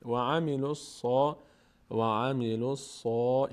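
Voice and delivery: full-mouthed صا at the end of و عملوا الصا; heavy sad. Shown as a demonstration. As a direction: mouth opened upward on الصا, drawn out.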